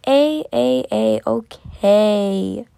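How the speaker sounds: cracking, lost voice straining on A; strained croak after screaming; hoarse cry. Real, not acted. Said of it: "I kinda lost my voice from screaming".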